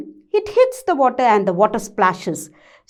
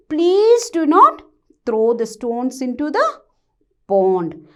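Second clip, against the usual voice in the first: pleading. Acted. Father frog begs the boys to stop, pleading. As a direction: beg the boys gently to stop. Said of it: "he was pleading".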